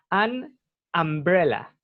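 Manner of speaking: "an umbrella" slowly, as an am-bre-la; pronunciation model. Shown as a demonstration. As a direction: give a slow, careful model of "an umbrella". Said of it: "se dice".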